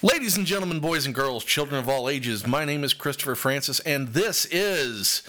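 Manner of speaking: booming showman announcement; ringmaster. Acted. Podcast host's showman opening.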